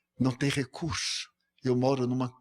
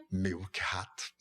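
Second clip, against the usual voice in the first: soft whispered "Milk Hat", breath only; gentle whisper of "Milk Hat"; whispered greeting; 4 semitones lower, 5 dB quieter than usual. Retold or imitated. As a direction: hush it like a private greeting. Quiet daily greeting to the man.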